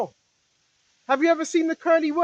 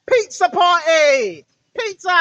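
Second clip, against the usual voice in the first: mocking; 6 dB louder, slower than usual. Mocking the code phrase.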